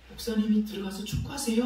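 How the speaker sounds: a hint of a little girl piping up; child's suggestion. Girl watching pastor yell at football, childlike suggestion. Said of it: "수연이가 저를 이렇게 보더니".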